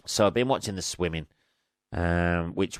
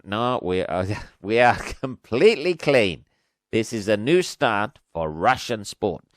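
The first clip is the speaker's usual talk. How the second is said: bad Russian accent. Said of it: "Terrible Russian accent".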